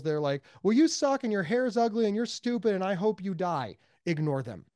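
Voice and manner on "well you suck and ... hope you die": raised, emphatic troll taunt; jeering troll. Acted. Online troll insulting a stranger, jeering and emphatic. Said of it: "There's always gonna be trolls".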